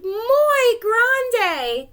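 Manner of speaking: high, loud Spanish exclamation; Spanish-accented exclaim. Acted. Chinchetta exclaiming in Spanish at the huge hamster. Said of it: "Chinchetta groaned".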